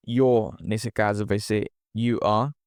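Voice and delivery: ordinary delivery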